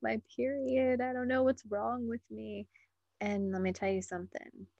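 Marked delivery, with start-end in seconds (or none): 0.0-2.7 higher, lightly voiced bewildered weepy woman; a hint of a tearful, puzzled woman; imitating a teary woman. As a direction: mimic a confused woman fretting through tears. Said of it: "you might hear them say something like".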